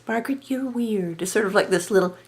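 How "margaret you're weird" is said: lilting dismissive voice. Retold or imitated. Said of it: "I can't do her voice".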